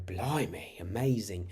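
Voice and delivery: mildly wowed, drawn-out exclamation; impressed amazement. Shown as a demonstration. Reacting to something incredible, mildly amazed. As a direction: say it as a pleased wow. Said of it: "say it in a good way".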